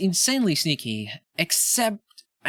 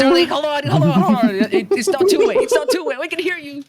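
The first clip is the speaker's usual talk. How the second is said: loud high call across the room; 11 semitones higher, 7 dB louder than usual. Real, not acted. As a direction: shout so he hears. Calling to player without headset.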